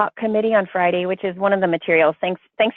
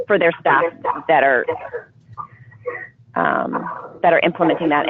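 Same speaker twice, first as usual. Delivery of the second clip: big hall echo. Real, not acted. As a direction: voice echoing back on the call. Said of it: "I'm echoing again".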